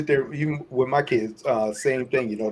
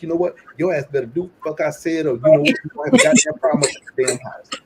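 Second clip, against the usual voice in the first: angry yelling; 2 semitones higher, 5 dB louder, faster than usual. Retold or imitated. Dad yelling at kids.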